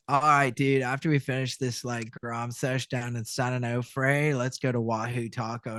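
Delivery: lightly voiced surfer dude; low, laid-back California surfer talk. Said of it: "hanging around these surfer guys".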